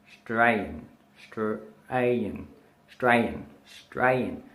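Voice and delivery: Australian as "Strayan", repeated for learners; Aussie shortened pronunciation. Shown as a demonstration. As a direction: drill "Australian" as two parts, Stray-an. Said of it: "separate parts of the word".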